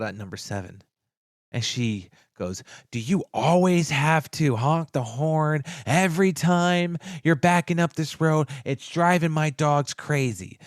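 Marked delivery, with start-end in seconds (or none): 2.9-10.6 retold complaint. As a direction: imitate an exasperated neighbor, stretching the words. Retold complaint from annoyed neighbor.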